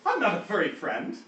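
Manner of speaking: high-voiced affronted creature; indignant talking sheep. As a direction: correct them as an offended sheep. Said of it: "the sheep that's sitting on the ground".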